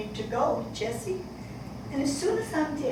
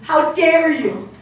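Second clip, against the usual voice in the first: slow angry; 8 dB louder, slower than usual. Acted. Mother's angry outburst.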